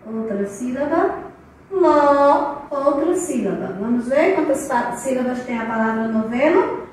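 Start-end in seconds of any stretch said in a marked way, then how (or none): 1.7-2.7 "Lo" held long as a separate syllable; last chunk "Lo", drawn out and set apart. Shown as a demonstration. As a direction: stretch "Lo" out on its own. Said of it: "Vamos agora separar a palavra".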